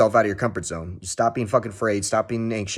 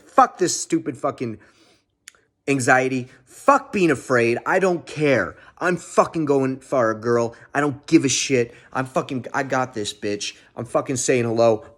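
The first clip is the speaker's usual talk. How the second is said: self pep talk. Retold or imitated. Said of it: "I was, like, so mad at myself".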